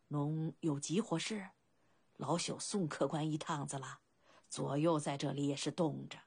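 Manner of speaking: low-pitched, lightly voiced old man; helpful old boatman. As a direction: offer it as a discreet old boatman. Old boatman offers passage. (略微低沉的老船夫口吻)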